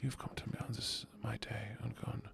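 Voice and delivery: high-pitched, playfully wounded complaint; mock jealous. Streamer scolds a friend for causing jealousy, mock jealous. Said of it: "why have you made me jealous today".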